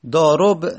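ضارب said "daarob", rounded o before the b; damma on the ra. Shown as a demonstration. Teacher showing the heavy alternative, damma on ra. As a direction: round the last vowel of ضارب to o. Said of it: "اگر دمه بدیم".

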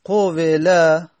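teacher sounding out قوله slowly for students; slow demo of the original form. Shown as a demonstration. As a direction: spell out قوله syllable by syllable. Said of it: "اصلش قوله".

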